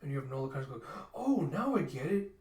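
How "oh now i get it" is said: high, loud, drawn-out "oh"; sudden realization. Retold or imitated. Nola understanding the tears, sudden realization. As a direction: let it dawn on you slowly.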